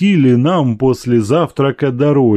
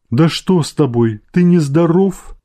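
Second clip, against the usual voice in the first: worried; 6 semitones higher than usual. A narrator's reading. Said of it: "спросила она с беспокойством".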